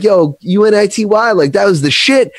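high, loud, hyped-up praise; hyped fan. Retold or imitated. Fan praising her song, high loud hype.

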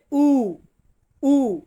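a long "উ" with no y-glide; Italian letter U. Shown as a demonstration. Teacher modelling Italian U for learners, "উ" as pure oo. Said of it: "ইউ এর উচ্চারণ হবে".

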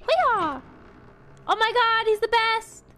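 high, excited praise; cheering. Real, not acted. Praising the gnome companion, high excited cheer. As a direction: cheer him on, high and bright.

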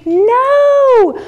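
high loud shouted no; showing the child how to scream no; mock scream no. Shown as a demonstration. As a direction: belt out a big no. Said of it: "We could have screamed".

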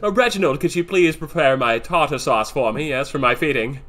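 hint of a pampered master addressing the butler; playful lord-of-the-manor voice; lightly voiced rich master. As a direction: order your butler about, mock-grand. Plays master ordering his butler.

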